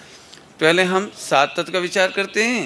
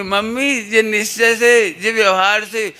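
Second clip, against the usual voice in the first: put-on little child; 4 semitones higher, 4 dB louder, slower than usual. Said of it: "इतने इतने से बच्चे कहेंगे".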